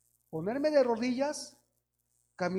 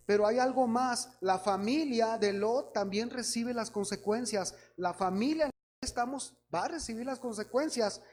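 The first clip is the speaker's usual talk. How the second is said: a louder, forceful preaching push; 3 dB louder than usual. Acted. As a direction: drive the warning home to the congregation. Preacher building to the point.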